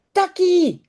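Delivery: high, falling storybook cry; mock wail. Janneke calls to the dog with her slipper, mock wailing. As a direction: call out with a mild pretend wail. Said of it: "huilt Janneke".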